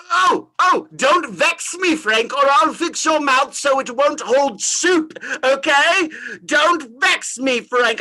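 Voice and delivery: hammed-up slow threat; mock threat. Scrooge threatening the spirit he calls Frank, hammed-up menace. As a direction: drawl the threat out, half joking.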